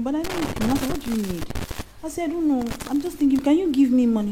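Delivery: put-on baby voice. Shown as a demonstration. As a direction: wheedle sweetly, a touch childish. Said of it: "You just change baby voice for him".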